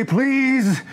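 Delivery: high, slow pleading with rising desperation; hammed-up plea to the show for gameplay; begging plea. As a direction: beg like a fan near the end of their rope. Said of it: "all we can do is say".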